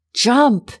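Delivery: yell. A narrator's reading. Roger to narrator trapped in burning plane, yelling. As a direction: yell it up as a command. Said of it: "he yelled".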